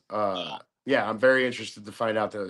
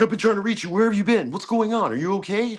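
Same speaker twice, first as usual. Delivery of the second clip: high, pitched-up anxious caller; worried caller; 10 semitones higher, 4 dB louder than usual. Retold or imitated. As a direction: fret like a caller who can't reach you. Caller voiced in retold story.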